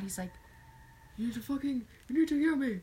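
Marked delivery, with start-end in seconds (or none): 1.2-2.7 loud, rising mock anger; hammed-up angry demand, building louder; imitating mad father. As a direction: do an exasperated dad demanding attention. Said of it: "he'll get mad".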